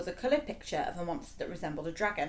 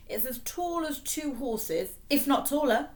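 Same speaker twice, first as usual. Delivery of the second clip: eager interruption; 7 semitones higher, slower than usual. A narrator's reading. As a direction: blurt it out, eager to help. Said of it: "interrupted Fred".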